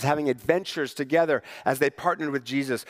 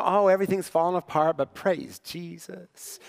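pretend cheer. Pretending to like it when everything falls apart, fake cheer. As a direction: put on forced praise, drawing out the last words. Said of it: "we're supposed to pretend to like it".

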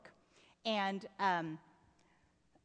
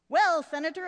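hearty greeting; 4 semitones higher, 10 dB louder than usual. Acted. Hearty stepfather greeting boy.

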